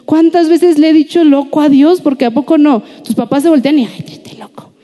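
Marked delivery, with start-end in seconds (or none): 3.8-4.7 under the breath, almost whispered; muttered aside. Retold or imitated. Parents turn away from their child and say it, muttered under the breath. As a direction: imitate a parent grumbling very softly to themself.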